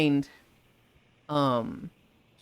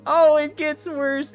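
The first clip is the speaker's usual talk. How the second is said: ominous teaser; 10 semitones higher, 4 dB louder, slower than usual. Retold or imitated. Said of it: "one of them goes".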